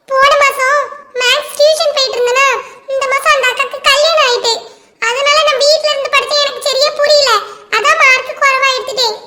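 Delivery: lightly voiced schoolchild; pupil explaining. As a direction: make excuses to the teacher like a kid.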